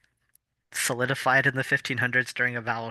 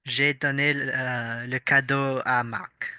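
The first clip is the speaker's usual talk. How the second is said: lightly French-accented sentence; J'ai donné le cadeau à Marc said the French way, slowly. Shown as a demonstration. Showing the long French version to a friend, lightly French-accented. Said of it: "Instead of saying".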